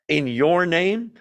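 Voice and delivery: "your" drawn out with emphasis; slow, pointed emphasis on "your"; stress on YOUR. Acted. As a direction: lean slowly on the word "your". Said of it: "your in Greek is emphatic".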